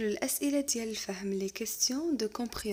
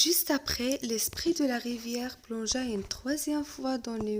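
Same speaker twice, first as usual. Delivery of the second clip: lecture de conte; slower than usual. Acted. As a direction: lecture lente et posée d'un conte. Reading the tale aloud. (maître qui lit un conte lentement à sa classe)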